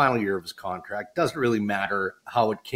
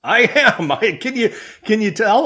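sheepish admission; 10 semitones higher, 5 dB louder than usual. Real, not acted. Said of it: "can people tell".

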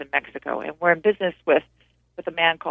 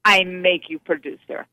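imitated Italian boss making an offer; Dino's Italian accent; 6 semitones higher than usual. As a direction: grandly hand out the job in an Italian accent. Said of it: "I'm doing it with his Italian accent".

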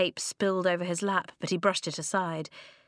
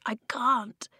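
tearful; 4 semitones higher than usual. Acted. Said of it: "he whispered".

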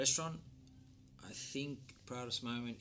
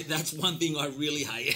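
laughing; 6 semitones higher, 14 dB louder than usual. Real, not acted. Laughing over hated coriander.

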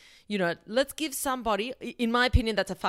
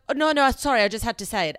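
imitating excited friend; 3 semitones higher, 6 dB louder, faster than usual. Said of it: "she'll be like".

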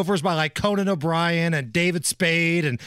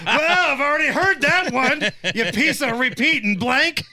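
put-on Massachusetts accent; 6 semitones higher than usual. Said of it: "East Coast Massachusetts toll booth worker".

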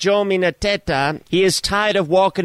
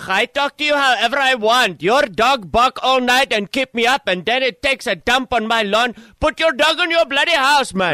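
lightly put-on Spanish-accented English, grumpy neighbour; a hint of a Spanish accent, complaining; lightly voiced Spanish-accented caller; mock Spanish accent; 2 semitones higher than usual. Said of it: "What is that accent?".

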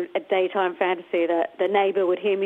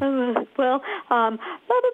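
flustered babble rising high; flustered fan; 4 semitones higher than usual. Retold or imitated. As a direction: stammer like an overwhelmed fan. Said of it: "trying to hold it together".

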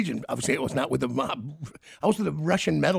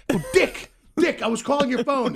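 friend's greeting; 8 semitones higher, 4 dB louder than usual. Retold or imitated. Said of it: "He comes walking".

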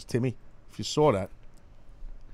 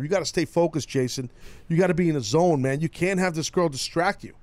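overbearing father; 5 semitones higher, 3 dB louder than usual. Acted. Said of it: "like an overbearing father".

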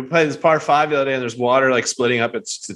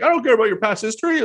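imitating an angry driver; 11 semitones higher than usual. Cart driver snapping back.

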